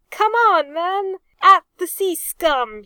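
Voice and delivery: loud, high rallying shout; battle cry. A narrator's reading. Arthur urging his men at the pirates, loud high cry. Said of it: "he cried".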